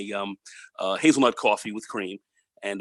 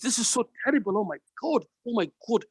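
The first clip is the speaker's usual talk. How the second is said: imitated Indian accent; 9 semitones higher than usual. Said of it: "he's talking to me like this".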